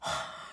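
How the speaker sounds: heavy sigh. Shown as a demonstration. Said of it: "every two seconds I gotta be like".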